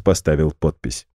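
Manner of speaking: ordinary delivery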